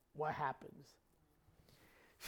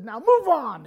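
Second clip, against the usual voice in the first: loud shooing order, pitched up; imitated sharp command; 4 semitones higher, 8 dB louder than usual. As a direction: shoo the snake off firmly. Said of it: "she slaps her hands together and says".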